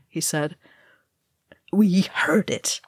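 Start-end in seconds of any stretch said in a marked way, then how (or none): 1.7-2.8 slow, hoarse whisper. Acted. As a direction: breathe it out hoarsely, afraid. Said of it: "Balin said hoarsely".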